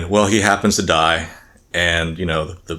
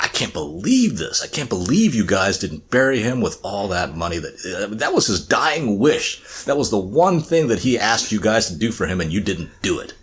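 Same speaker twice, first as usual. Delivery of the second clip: indignant; 4 semitones higher than usual. Retold or imitated. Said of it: "He gets indignant".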